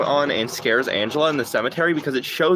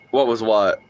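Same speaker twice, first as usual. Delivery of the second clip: ordinary talk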